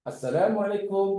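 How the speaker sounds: a kind, friendly salam; pleasant greeting. Shown as a demonstration. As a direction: say Assalamualaikum nicely, with good intonation. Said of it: "bagus ucapannya, menyenangkan".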